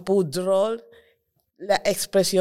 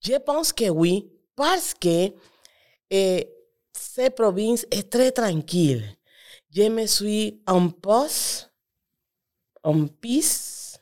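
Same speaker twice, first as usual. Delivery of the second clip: Spanish-accented French; foreign accent in french. Real, not acted. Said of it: "je m'excuse si mon français, ce n'est pas bon".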